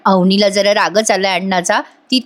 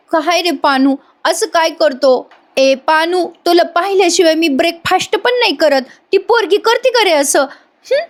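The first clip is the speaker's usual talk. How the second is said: Payal; 8 semitones higher than usual. Retold or imitated. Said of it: "पायल म्हणते".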